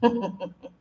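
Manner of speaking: mild imitation of a sinister child's laugh; a light evil giggle. Ghost boy laughing at the kids, mild imitated evil laugh. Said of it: "just the most evil laugh".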